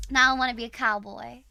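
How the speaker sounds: light cowboy Southern twang; Southern accent attempt. Streamer switching to a new accent, Southern attempt. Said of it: "let's try Southern accent".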